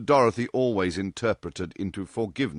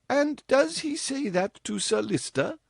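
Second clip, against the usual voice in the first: high, hushed awe; awestruck mother. A narrator's reading. Mother asks her daughter about Sir Lister, awestruck. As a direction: ask it as if scandalised and amazed. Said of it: "in awestruck voice".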